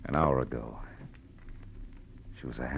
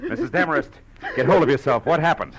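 raised, urgent command; 5 semitones higher than usual. Acted. Marlowe urging the sobbing woman to pull herself together. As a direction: snap her out of her panic.

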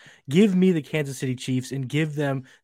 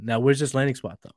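ordinary delivery

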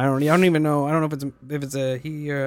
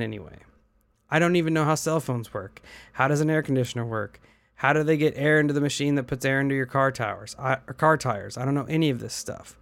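earnest first-person reading of a post; steady, serious read-aloud of a personal account; reading a comment aloud. Acted. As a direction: read out someone's written confession in their words. Reads a written comment aloud.

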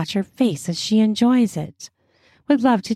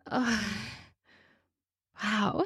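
very soft breathy wow; breathless hush; 2 semitones higher, 12 dB quieter than usual. Real, not acted. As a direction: barely breathe out the words. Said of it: "this toy is really getting me hot".

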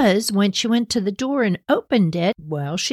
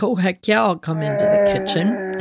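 lightly voiced eager bear; a hint of a hungry bear. Bear eager to follow the smell to the kitchen, lightly voiced. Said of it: "the bear's like".

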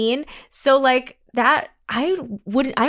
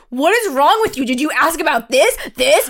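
retold telling-off; 4 semitones higher, 4 dB louder than usual. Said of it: "I'm getting yelled at".

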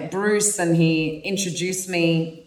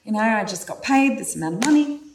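put-on much higher, bubbly girly voice, quicker mid-line; excited inner feminine; 8 semitones higher, faster than usual. Her feminine side telling her masculine side about the tickets, in a high, excited girly voice. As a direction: gush like a thrilled girl planning a trip. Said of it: "And she's like".

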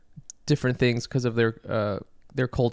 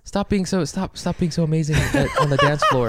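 laughing; 3 semitones higher than usual. Retold or imitated. Mocking jealous men, laughing.

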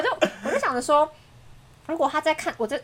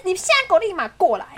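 raised, insistent re-enacted order; retold summons; 5 semitones higher than usual. Girlfriend calls over boyfriend's friends, retold demand. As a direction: order them over, pitched up. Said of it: "我就叫他们朋友过来".

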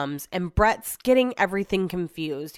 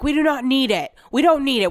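mock husband, louder and higher, flat refusal; firm refusal; 7 semitones higher, 5 dB louder than usual. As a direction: imitate him putting his foot down. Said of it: "he's like".

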